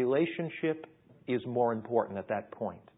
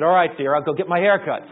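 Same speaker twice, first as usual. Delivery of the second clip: resigned giving in; 4 semitones higher, 12 dB louder than usual. Retold or imitated. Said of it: "I said".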